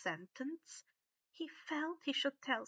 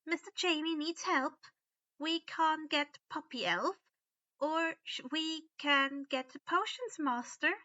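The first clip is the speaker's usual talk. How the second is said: high, gentle elf question; kindly elf; 5 semitones higher, 5 dB louder than usual. A narrator's reading. Winky kindly asks Harry, high elf voice.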